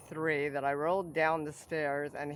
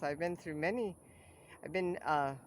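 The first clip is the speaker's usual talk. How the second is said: numb mouth. Real, not acted. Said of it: "sorry, I got a little numb mouth".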